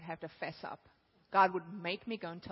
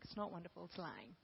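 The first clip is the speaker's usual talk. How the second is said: much softer, calm correction; soft God voice; 3 semitones lower, 14 dB quieter than usual. Acted. God correcting the preacher, soft firm voice. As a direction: say it gently but firmly.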